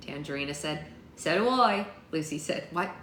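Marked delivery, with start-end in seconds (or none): 1.2-1.9 British-sounding character voice; lightly British, pitched a little up; accidental British accent. Acted. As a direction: slip into British by mistake. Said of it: "Did Lucy just become British?".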